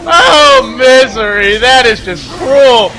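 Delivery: loud, high hype yell; excited shout. Real, not acted. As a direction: yell it at the screen. Caster yelling at a play.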